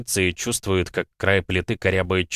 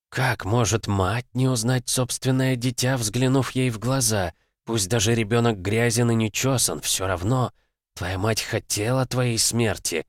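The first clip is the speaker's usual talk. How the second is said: sultry narrator; 4 semitones higher than usual. Acted. Darkness taunting, higher and slow.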